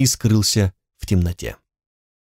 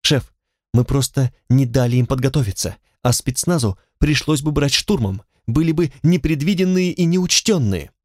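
flattering voice; 3 semitones higher than usual. Acted. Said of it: "быстро-быстро льстивым голоском".

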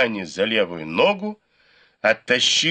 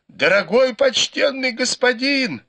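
much higher, louder desperate wail; wailing howl; 14 semitones higher, 4 dB louder than usual. A narrator's reading. Beaten man howls for mercy to his attacker, high desperate wail. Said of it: "завопил Сюэпань".

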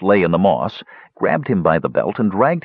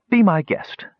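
snorting; 11 semitones higher than usual. A narrator's reading. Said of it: "snorted Perion".

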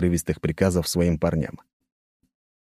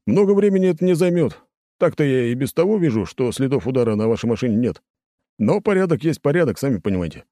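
much higher-pitched, deferential officer; placating patrol lieutenant; 9 semitones higher than usual. A narrator's reading. Lieutenant excusing the check to a prince, high and placating. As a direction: keep excusing yourself in a high, conciliatory voice.

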